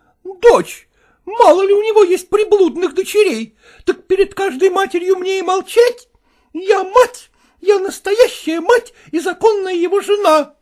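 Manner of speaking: wife defending her rights; furious wife. Acted. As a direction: shout down the rival. Wife shouts at mistress.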